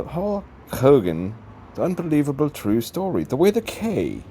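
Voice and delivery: putting on a mock British accent. Reading the book title as a joke, British accent. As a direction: read it out in a silly British accent. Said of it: "I'm already doing the British accent".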